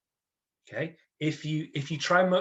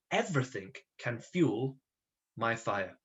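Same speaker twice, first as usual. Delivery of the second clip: softer, slower second reading of the phrase; soft repeat; 3 semitones lower, 6 dB quieter, slower than usual. Shown as a demonstration. Teacher repeating the phrase quietly while the class writes. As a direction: repeat it gently, word by word. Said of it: "So please write that".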